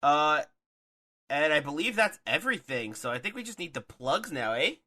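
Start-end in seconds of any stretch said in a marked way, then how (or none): 2.9-4.7 light Canadian lilt with swooping pitch; Canadian accent. Pretend. Host asking for the plugs, jokey Canadian accent. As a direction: slip into a playful Canadian accent. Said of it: "I don't know why I turned Canadian".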